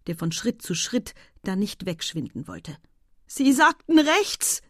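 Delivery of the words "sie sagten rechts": slow, loud, high strained groan. A narrator's reading. Husband struggling in the water, groaning. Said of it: "ächzte der Mann".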